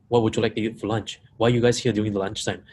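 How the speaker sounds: questions run together with little space; stacked questions. Shown as a demonstration. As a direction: pile one question on the next. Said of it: "If I stack questions like this".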